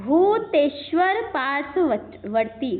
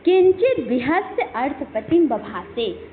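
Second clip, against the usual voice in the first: slow, measured Sanskrit chant; verse recitation; slower than usual. Shown as a demonstration. Teacher reciting the verse line to students, slow chant. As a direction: lay out each syllable of the verse evenly. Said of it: "Sanskrit verse read in class".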